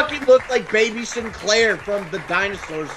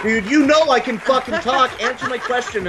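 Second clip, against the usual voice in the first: laughing; 5 semitones higher than usual. Real, not acted. Laughing while speaking.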